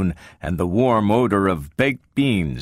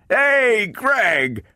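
high, excited call down a corridor; glad booming howl; 14 semitones higher than usual. A narrator's reading. Donovan calls his partner after a find, glad booming howl. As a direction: holler the name high and gladly. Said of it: "glad voice rise boomingly".

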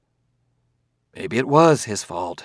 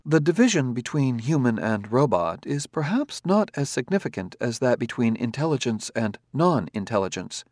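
calm robot voice; 2 semitones higher than usual. Acted. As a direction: speak as a courteous, precise android. Robot character held voice.

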